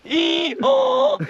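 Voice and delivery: high, loud donkey bray; donkey impression. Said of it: "Give me your best donkey impression".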